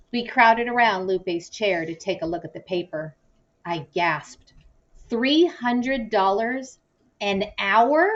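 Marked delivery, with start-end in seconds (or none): 5.1-8.1 shocked. Acted. Shocked at the lawyer's fee.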